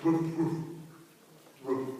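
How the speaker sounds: short, low woofs with gaps; imitated barking dog. Neighbor's dog going all night, imitated barking. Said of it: "It's like that dog".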